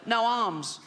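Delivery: put-on strained child voice with a laugh in it; funny little voice. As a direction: squeeze it out in the kid voice. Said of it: "a funny little voice".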